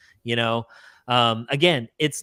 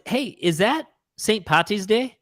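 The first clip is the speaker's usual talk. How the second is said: higher-pitched, hammed-up bad Irish accent; terrible Irish accent; 7 semitones higher than usual. Host jokes about Saint Patty's Day in a terrible Irish accent. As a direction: put on a badly faked Irish lilt. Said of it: "That was a terrible Irish accent".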